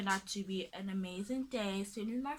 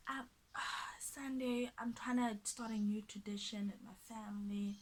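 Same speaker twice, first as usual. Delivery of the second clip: mock hesitant excuse; 5 dB quieter than usual. Acting out his slow excuse.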